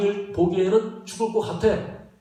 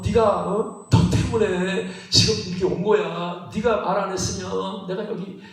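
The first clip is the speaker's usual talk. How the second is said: mock blaming. Disciple blaming a companion for the stormy trip, mock reproachful. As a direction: whine the accusation, stretching the phrase endings. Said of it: "막 원망하고".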